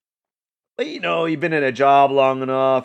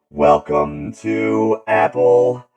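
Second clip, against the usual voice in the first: ad voice; 6 dB louder, slower than usual. Pretend. Mock Apple ad.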